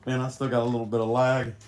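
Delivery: raspy, rough voice from sickness; hoarse smoker voice. Real, not acted. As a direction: talk with a lingering hoarse rasp. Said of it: "I sound like a smoker".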